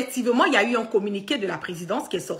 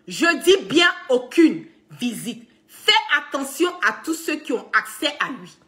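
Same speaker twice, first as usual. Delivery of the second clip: urgent warning. Retold or imitated. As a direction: implore her to lock everything down. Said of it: "J'avais fait un post le vingt-sept février où j'ai dit". (avertissement pressant et lent)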